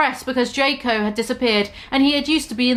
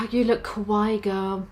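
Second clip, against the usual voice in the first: put-on softer, lower, sad reread of "You look kawaii, girl"; sadly; 3 semitones lower, 5 dB quieter than usual. Shown as a demonstration. Bloody Mary sadly complimenting the goth girl, soft and low. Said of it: "Bloody Mary said sadly".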